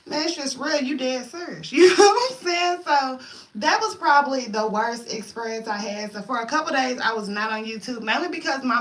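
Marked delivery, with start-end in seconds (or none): 1.7-2.8 laughing. Real, not acted. Laughing at own story.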